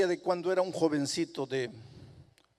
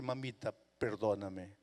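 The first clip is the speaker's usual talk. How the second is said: timid plea; 7 semitones lower, 6 dB quieter than usual. Acted. Boy begs mother for forgiveness.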